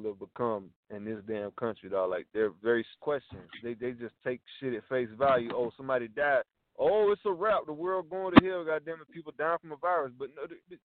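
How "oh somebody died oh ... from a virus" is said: mock panic. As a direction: play the panicking sheep, half joking. Mocking gullible people's panic.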